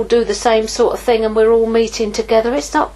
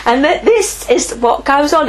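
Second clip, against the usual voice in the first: laughing; 4 semitones higher, 5 dB louder than usual. Real, not acted. Laughing while speaking.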